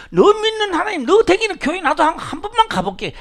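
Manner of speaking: voiced high and loud, pleading to come along; eager follower. A follower pleads with the pastor to come to church, voiced high and loud.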